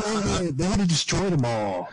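real chuckle carrying the words; laughing. Real, not acted. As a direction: laugh it out sarcastically. Laughing at destroyed records.

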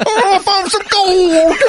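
high, slow prospector voice; hammed-up old gold miner. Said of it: "he's doing it like the old prospector".

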